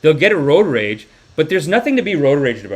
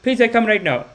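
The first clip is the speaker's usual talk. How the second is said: high, begging auntie impression; pleading auntie; 13 semitones higher than usual. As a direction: beg like a desperate auntie, high-pitched. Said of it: "these aunties like".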